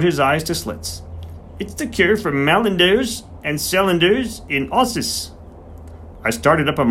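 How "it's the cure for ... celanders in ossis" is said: put-on high, slowish voice of an old Yorkshire countryman; a garrulous old farmer settling in to talk. Old farmer reveals the secret.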